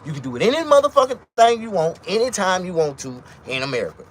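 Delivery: high, loud ranting voice; fired-up rant on money; heated rant. Real, not acted. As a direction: shout it out in exasperation. Ranting about Americans.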